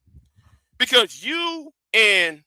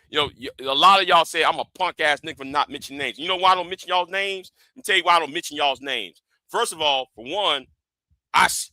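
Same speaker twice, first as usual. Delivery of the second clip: quiet menace; 2 semitones lower, 6 dB quieter than usual. Real, not acted. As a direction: drop the volume and threaten. Cold warning to critics.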